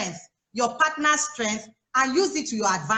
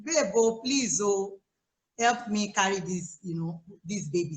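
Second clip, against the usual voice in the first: calm sweet plea; 4 semitones lower than usual. Pretend. Wife calmly asking husband to carry baby, tender. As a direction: coax your husband gently, winding down. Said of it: "calm down and say".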